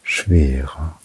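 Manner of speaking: breathy hushed whisper. Acted. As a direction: whisper it, fading away. Whispered deepening cue.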